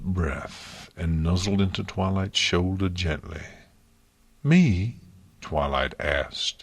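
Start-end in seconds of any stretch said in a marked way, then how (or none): 4.4-5.0 louder, higher disbelieving question; can't believe it's about her; incredulous. Acted. Twilight asking Luna in disbelief, incredulous.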